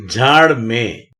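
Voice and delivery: झाड़ में with nasal में, slow and drawn out; teacher says झाड़ में with a nasal vowel on में. Shown as a demonstration. Teacher demonstrating nasal में to students. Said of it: "इसे में पढ़ना चाहिए".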